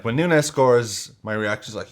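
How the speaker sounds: usual speaking voice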